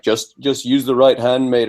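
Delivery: a hint of a Scouse corner man giving advice; mock Scouse accent. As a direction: do a half-Scouse, half-Glaswegian boxing trainer. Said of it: "hybrid Scouser accent".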